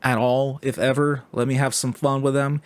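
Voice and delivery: a hint of a scheming New York old-timer; sly New Yorker accent, half-hearted; New York stranger plotting fun with tourists, mild accent; lightly voiced New Yorker. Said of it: "this guy's like".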